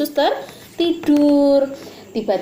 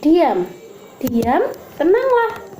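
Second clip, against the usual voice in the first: commanding the storm; 5 semitones higher, slower than usual. Acted. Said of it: "Tuhan Yesus berkata kepada angin ribut".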